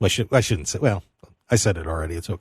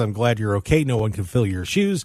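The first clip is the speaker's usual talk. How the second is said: normal talking voice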